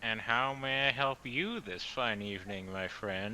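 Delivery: lightly drawled southern voice; southern accent. Acted. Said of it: "Why is Aesir suddenly southern?".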